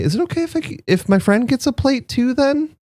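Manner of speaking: a tiny, nervous frog asking politely; small shy frog guest, hungry but apologetic; Sal the small frog. Acted. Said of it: "and Sal's gonna say".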